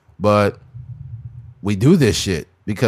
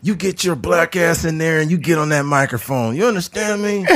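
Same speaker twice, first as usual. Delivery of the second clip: mock slave master; 5 semitones higher than usual.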